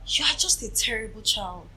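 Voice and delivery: lightly imitated mother telling off her child; scolding mother. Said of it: "then my mom, she was all".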